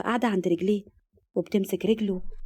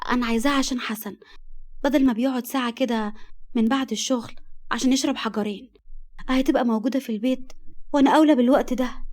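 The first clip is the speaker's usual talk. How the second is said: wife explaining herself; 3 semitones higher than usual. Acted. Wife explains to her friend why she wants shisha, pleading lightly. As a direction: make your case to your friend.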